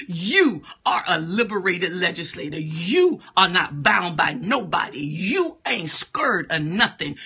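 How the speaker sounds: emphatic declaring, hitting each phrase; preaching declaration. Real, not acted. Preacher decrees who the listeners are, emphatic declaration. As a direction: proclaim it over them with firm authority.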